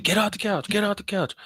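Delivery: high mock yell from mom. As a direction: bark it like a fed-up mom. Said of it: "Her mom was like".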